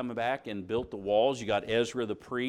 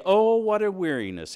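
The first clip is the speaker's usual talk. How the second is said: louder, groaning complaint; exasperated loud groan of boredom; weary sneer; 7 semitones higher, 8 dB louder than usual. Retold or imitated. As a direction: sneer it like a worn-out worshipper. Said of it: "and you sneer at it".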